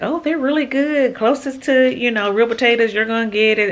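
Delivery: lightly voiced quote of the YouTuber's accent; imitating her accent. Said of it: "she got this little accent".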